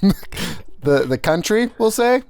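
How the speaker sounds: mock-introduce yourself as a whole country, barely changing voice; Namibia. Answering a request for an impression, lightly hammed-up greeting. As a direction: joke personification, lightly voiced. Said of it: "do your best Namibia impre-, uh, accent".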